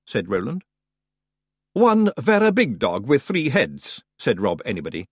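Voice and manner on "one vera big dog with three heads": drawn-out broad Scots correction; slow high Scots pixie. Acted. Rob Anybody correcting Roland, slow and broad. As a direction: savour every word, wee and cocky.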